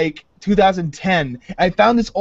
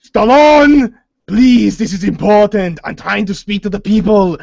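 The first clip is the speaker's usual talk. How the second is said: louder pleading Arnold; 5 dB louder than usual. Retold or imitated. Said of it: "Arnold pleading in the sketch".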